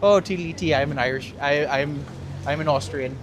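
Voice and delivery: badly faked Austrian, sliding into Irish; jokey Austrian accent gone Irish; mock Austrian accent. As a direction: do a hopelessly muddled Austrian accent. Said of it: "no real difference between an Austrian accent".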